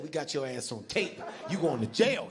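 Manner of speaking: a hint of a stern fed; mock fed. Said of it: "the feds came up to you and said".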